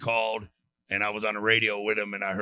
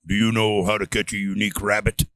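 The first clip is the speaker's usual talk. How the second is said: lightly voiced over a crackling radio; as if coming through the handset; 3 semitones lower, 6 dB louder than usual. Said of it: "I hear the radio crackling".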